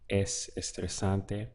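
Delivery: slow Spanish demo. Shown as a demonstration. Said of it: "it would be".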